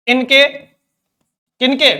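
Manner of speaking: very slow, each vowel stretched long; drawn-out demo. Shown as a demonstration. Teacher stretching the words to show prolonged vowels. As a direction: stretch every vowel like a pluta sound.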